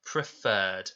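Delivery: "Preferred" with a long, stressed second syllable; long stressed fur. Shown as a demonstration. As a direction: hold and stress the "ferred" in "Preferred". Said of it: "It's making that long sound".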